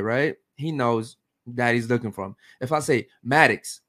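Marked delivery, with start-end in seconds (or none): 3.2-3.8 firm, louder falling "Maddox"; stern call. Shown as a demonstration. Dad calling his son when he's done wrong, stern firm call. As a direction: say "Maddox" so he knows he's in trouble. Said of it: "There's different tones".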